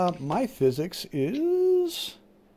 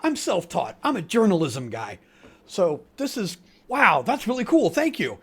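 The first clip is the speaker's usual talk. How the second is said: awestruck. Acted. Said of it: "looks kinda awestruck".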